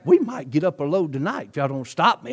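normal talking voice

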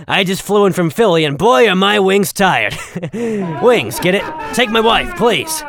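corny stand-up punchline delivery; old borscht belt comic. Acted. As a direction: sell the stale joke like a vaudeville hack. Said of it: "Don't actually laugh at that garbage".

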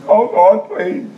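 high, pleading mock prayer; begging. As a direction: plead like a helpless beggar in prayer. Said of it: "hates for you to come in there begging".

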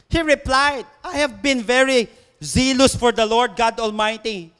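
loud, slow proclamation of scripture; preached scripture reading. Acted. Reads Elijah's reply.

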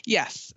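emphatic YES. Real, not acted. Answering a question about diet and charts, emphatic YES. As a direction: land firmly on YES. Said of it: "an emphatic yes".

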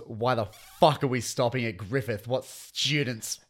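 half-yelled indignant complaint; mock angry yell. Passenger ranting at the tram stop, mild mock yell. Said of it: "She then yells".

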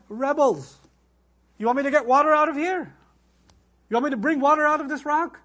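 exasperated prophet scolding his people; Moses. Acted. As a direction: challenge an ungrateful crowd, loud and high. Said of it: "why would he talk like that".

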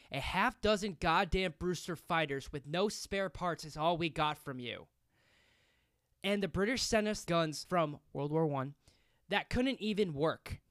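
mild mock yell, bitter; retold scream kept half-hearted. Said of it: "and screaming".

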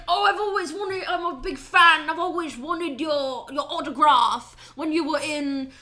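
hard-to-follow British fan voice; mock British accent. Macavity fawning over Gus for an autograph, mock British accent. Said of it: "I can't understand what half of these fucking characters".

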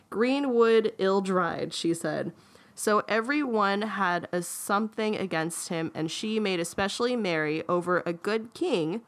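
lively storybook read-aloud; story reading. A narrator's reading. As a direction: read it out with lifted key words. Reads the tale aloud.

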